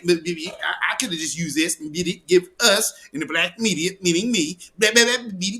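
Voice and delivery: mock the pitch for money, half-singing the beeps; mock hustler pitch. Mocking the politician's pitch.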